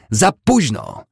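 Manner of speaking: loud, high drawn-out call; shouting after him. A narrator's reading. Woman to man vanishing in the distance, long high shout. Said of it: "krzyknęła, gdy znikał w oddali".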